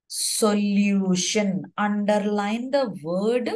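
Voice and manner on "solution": "solution" stretched out slowly; emphasis on solution. Real, not acted. Teacher dictating a word to underline, "solution" drawn out. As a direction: draw out "solution" syllable by syllable.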